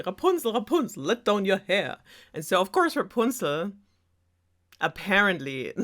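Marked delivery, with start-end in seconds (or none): 0.0-2.0 mock yell, moderately raised pitch; retold call up to a tower; prince calling up. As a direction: imitate the witch's call, less high. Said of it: "yell up and be like".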